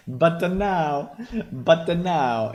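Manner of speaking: lightly mimicking the AI voice's phrasing; imitating the voice. Mocking the AI voice he just heard. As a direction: echo the robot's line with a hint of its lilt. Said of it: "he's saying".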